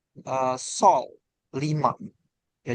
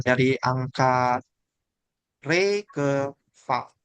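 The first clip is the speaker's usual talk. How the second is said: slow deliberate count; much slower than usual. Shown as a demonstration. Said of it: "dia dari".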